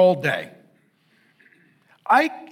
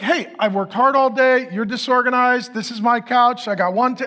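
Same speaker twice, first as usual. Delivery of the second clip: mock-frustrated rant at a disorganized wife, pitched up; 5 semitones higher than usual. Husband griping at his wife over the couch, raised. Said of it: "so I got frustrated with".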